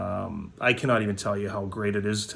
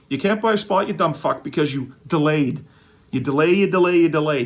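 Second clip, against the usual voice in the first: mock scolding; 5 semitones higher, 5 dB louder than usual. Scolding the viewer.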